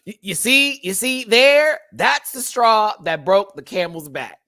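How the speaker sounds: loud, high-pitched character bit; Jay the Woods impression. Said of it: "Hold on, Jay the Woods, I can do it".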